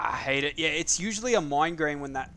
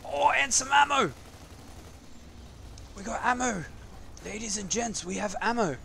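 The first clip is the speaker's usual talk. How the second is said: high, joyful announcing cheer; excited cheer; 7 semitones higher than usual. Real, not acted. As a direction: announce it like a game show host. Finding ammo, announcing it.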